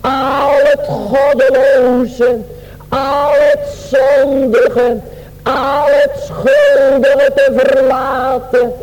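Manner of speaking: slow, half-sung preacher's cry; fervent preaching shout. Real, not acted. Preacher urging Nineveh to leave sin, fervent half-sung shout.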